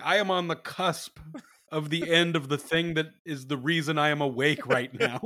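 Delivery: emphatic protest breaking into amusement; mock exasperated protest. Husband protesting to his wife over the baby, mock exasperation.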